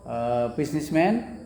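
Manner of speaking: businessman? drawn out and rising; slow rising question. Shown as a demonstration. Teacher models asking by tune, slowly rising. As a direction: stretch "businessman" upward as a question. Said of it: "nadanya nada bertanya".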